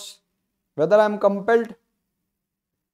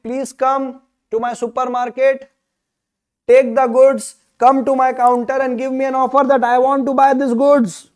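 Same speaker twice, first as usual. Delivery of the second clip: inviting the public; 4 dB louder than usual. Retold or imitated. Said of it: "giving an invitation to the public".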